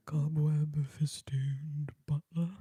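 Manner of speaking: cobweb festooned butler said low and hushed as a creepy butler. Shown as a demonstration.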